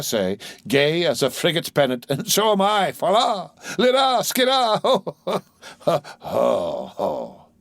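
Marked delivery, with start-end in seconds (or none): 2.1-7.5 much higher, gleeful sailor cackling; giddy high laugh. A narrator's reading. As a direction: let it spill up into a laugh. Sailor merrily sings and laughs.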